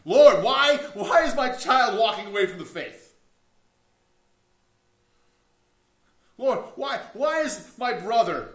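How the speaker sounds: loud, high, pleading prayer of complaint; desperate crying out to God. Retold or imitated. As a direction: cry out to the Lord in loud anguish, mostly high-pitched. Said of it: "What do we cry out about".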